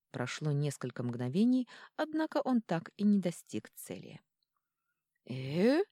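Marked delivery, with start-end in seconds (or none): 5.3-5.8 astonished. Acted. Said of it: "изумился Атрон".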